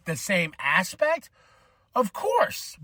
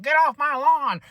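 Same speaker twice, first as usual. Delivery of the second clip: louder, higher, drawn-out mock shout; grumpy old man; 7 semitones higher, 5 dB louder than usual. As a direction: play the old man yelling at kids. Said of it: "sound like the old man".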